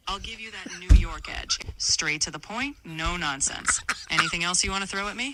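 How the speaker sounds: lightly put-on New York edge; straight-talking New York accent. AI assistant answering host's accent request, New York accent. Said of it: "can you talk in a New York accent?".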